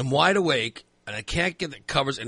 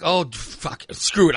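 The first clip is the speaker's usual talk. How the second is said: retold exasperation, punched louder at the end; fed-up curse; 3 semitones higher, 4 dB louder, slower than usual. Man giving up on his covers, fed up. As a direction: give up with an annoyed curse.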